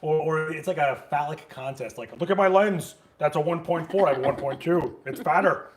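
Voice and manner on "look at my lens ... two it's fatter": mock boasting. Mocking gear-boasting photographers.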